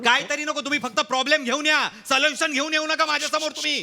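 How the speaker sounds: high-pitched dressing-down of the crew; angry scolding. Acted. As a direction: tell them off, fed up. Director scolds crew about problems.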